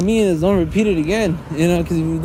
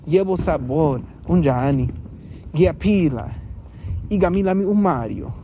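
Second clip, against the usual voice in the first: attempted Zulu. Shown as a demonstration. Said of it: "I think that's how you speak Easy Zulu".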